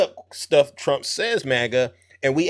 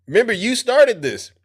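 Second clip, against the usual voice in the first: laughing; 7 semitones higher, 4 dB louder than usual. Real, not acted. Host laughing at maga voters.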